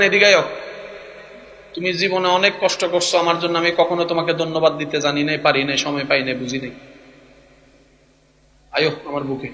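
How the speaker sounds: soft, low, heartfelt; fading into a hush; tender to wife. Shown as a demonstration. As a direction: whisper your thanks to your wife. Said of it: "বউরে কইবেন".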